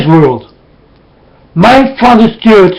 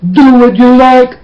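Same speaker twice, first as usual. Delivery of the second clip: higher mock voice; mock quote; 4 semitones higher than usual. Preacher mimicking people who think God allows anything, higher mock tone. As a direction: parrot their easy belief with a light sneer. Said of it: "because you will think".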